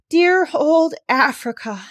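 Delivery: slow, high whispered sigh. Acted. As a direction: breathe it out fondly. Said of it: "sighed Polynesia".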